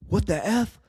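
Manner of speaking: high, airy mock disbelief; imitated shock. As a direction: imitate a stunned wife's reaction. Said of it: "She's, like, shocked".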